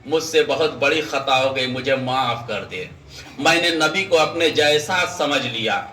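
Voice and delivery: low, subdued plea for forgiveness; humble low-pitched supplication, acted; acted repentant prayer. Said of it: "دعا کرنے لگا".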